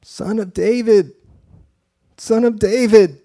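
high, loud cry for mercy; desperate yell. Acted. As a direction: call out over the crowd, desperate. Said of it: "this guy start yelling".

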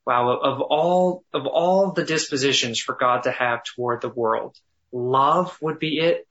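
awed reflection. Shown as a demonstration. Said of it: "emphasizing one word at a time".

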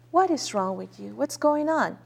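softly voiced, gentle concern; retold loving inquiry, a little soft; kind, loving. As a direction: ask tenderly, imitating a kind stranger. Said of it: "Very kind, so loving".

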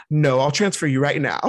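laughing through the line; giggling as she quotes it. Retold or imitated. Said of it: "She said it in English".

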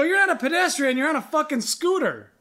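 high-pitched, exasperated argument; heated retort. Retold or imitated. Driver argues back at scooter rider, exasperated. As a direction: re-enact an indignant correction. Retelling his roadside argument.

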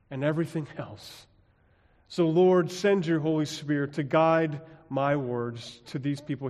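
earnest spoken prayer, opening strong then settling. Acted. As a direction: pray aloud for the congregation. Pastor leads a prayer.

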